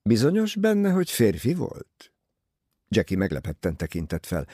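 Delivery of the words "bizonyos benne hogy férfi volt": suddenly higher, pointed question; changed voice. A narrator's reading. Poirot questioning Jackie's certainty in a changed voice. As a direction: lift the pitch sharply on the opening words. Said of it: "majd megváltozott hangon mondta".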